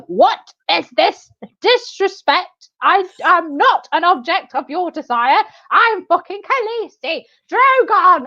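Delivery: put-on high, slow, quavering old nun; shaky old voice. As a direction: play an eighty-year-old nun as a queen. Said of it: "sound like an eighty-year-old nun".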